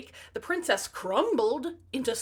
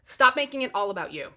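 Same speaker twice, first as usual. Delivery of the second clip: scolding; 6 dB louder than usual. Pretend. Scolding only children.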